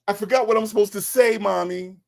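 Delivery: high-pitched mock child voice; whiny five-year-old. Mocking Dre as a kid pleading to Mommy, whiny five-year-old. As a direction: mimic a helpless little kid. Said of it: "That's how you sound".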